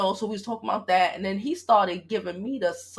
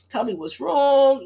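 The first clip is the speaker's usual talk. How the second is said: mock ex; 6 semitones higher, 5 dB louder, slower than usual. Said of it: "the things that he's like".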